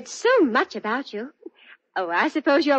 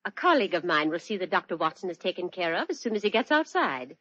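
cold menace; 3 semitones higher than usual. Acted. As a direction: drop the silly act and threaten him coldly. Drops the act, holds him at gunpoint.

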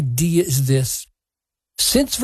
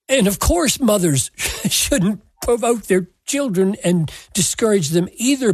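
ordinary delivery

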